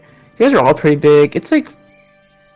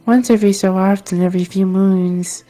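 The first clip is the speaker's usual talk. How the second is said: lightly raised, wistful villager; a hint of a dreamy local; 5 semitones higher than usual. GM voices villager character.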